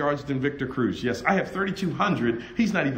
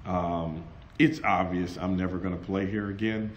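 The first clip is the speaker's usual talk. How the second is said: humble request; 10 semitones lower, 7 dB quieter than usual. Retold or imitated. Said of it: "I said".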